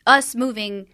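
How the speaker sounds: rising, bewildered, ending in a laugh; mock baffled, laughing at the nonsense; confused. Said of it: "'Cause you're like".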